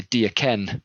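"Do you ken?" in Scots, "you" reduced to "ya"; Scottish dialect. Shown as a demonstration. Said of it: "the Scottish dialect".

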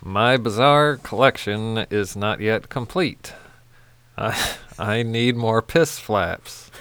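dramatic reading. Shown as a demonstration. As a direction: read it like a poem. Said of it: "Read us these beautiful lyrics".

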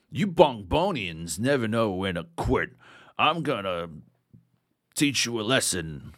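same hammy voice again, lightly put on; stilted game voice acting. Mocking the second cutscene character, same stilted hammy voice. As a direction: recite a stiff dubbed threat, a touch hammy. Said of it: "I just kept doing the same voice".

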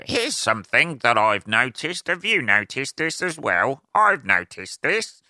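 high, hammed-up observational stand-up delivery; mock a comic pointing out the obvious; observational comic parody. Mocking say-what-you-see comedy, hammed-up comic voice. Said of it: "the say what you see comedy".

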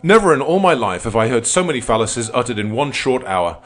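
pompous outraged lawyer, high and loud; hammy stage actor. A narrator's reading. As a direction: rant like an indignant old orator. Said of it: "snapped his fingers contemptuously".

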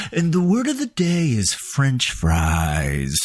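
mock announcement. Shown as a demonstration. Host showing listeners how the word might drop, slow mock announcement. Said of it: "I could go".

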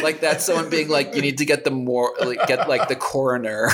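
amused, laughing aside. Real, not acted. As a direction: giggle through the mock-dramatic comparison. Laughing at the overreaction.

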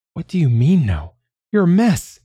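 high, agitated protest; incredulous alarm. Acted. Manya protesting Pinyat's refusal of help, agitated. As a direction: push back urgently, pitched right up.

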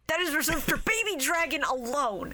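a hint of a jealous outburst; mock protest. Podcast host mock-protesting the anime's nickname. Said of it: "I just went".

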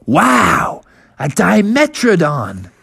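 drawn-out amazed exclamation; slow, wondering discovery; awed young bear. Acted. Junior Bear spots a dinosaur, amazed.

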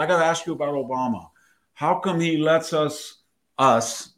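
a hint of Valley Girl; Valley Girl accent. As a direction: quote a Valley Girl putting a question. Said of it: "got into a Valley Girl accent".

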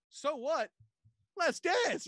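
very high, put-on party-starter voice; hammed-up excited call; movie character's cheer. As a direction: kick off the dancing in a comic impression. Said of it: "He's like".

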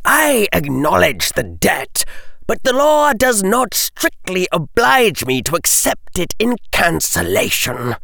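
a touch of a grim smile; smug, grim correction; Malfoy corrects the crowd coolly. A narrator's reading. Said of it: "said Lord Malfoy with a grim smile".

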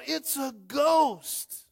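loud, high, drawn-out scripture shout; slow, high-pitched dramatic yell of fear; terrified cry. Acted. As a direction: cry it out in hammed-up terror. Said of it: "In their fear, they cried out".

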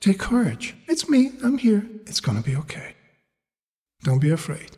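steady someone who is afraid, easing down at the end; gentle acted reassurance; reassuring tone. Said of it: "in that reassuring tone".

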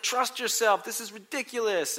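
high-pitched exasperation; retold yelling. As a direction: act out losing patience while coaching. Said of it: "I'm, like, yelling at her".

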